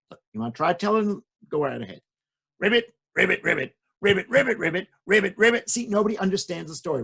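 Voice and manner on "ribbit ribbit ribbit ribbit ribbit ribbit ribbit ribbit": loud croaky ribbit chant; frog croaking. Acted. Frog puppet telling the story in frog, louder. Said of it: "you're speaking in frog".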